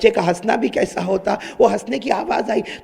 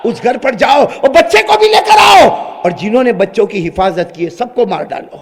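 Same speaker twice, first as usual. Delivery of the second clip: angry command; 4 dB louder than usual. Acted. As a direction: shout the order to kill. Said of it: "فرعون نے کہا". (غصے سے حکم دیتا فرعون)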